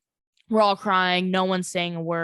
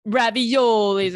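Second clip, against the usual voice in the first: joking exaggeration; 3 dB louder, much slower than usual. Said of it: "I'm kidding".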